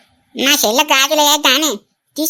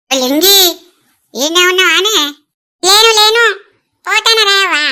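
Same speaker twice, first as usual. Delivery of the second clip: raised, higher-pitched call; scolding call; 3 semitones higher, 4 dB louder than usual. Acted. Woman confronting a lurking eavesdropper, raised scolding call. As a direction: send them off with a loud call.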